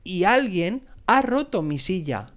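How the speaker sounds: put-on high, complaining baby bear; mild mock whimper. A narrator's reading. Baby bear finding the chair broken, mock whimpering. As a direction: lightly whine it in a high pitch. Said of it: "gimoteó el osito bebé".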